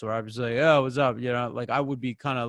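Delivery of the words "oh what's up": casual, lazy diction; lazier talking. Shown as a demonstration. Coach showing how they talk off duty, lazy casual diction. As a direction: toss it off with loose, everyday articulation. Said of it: "a little bit lazier talking".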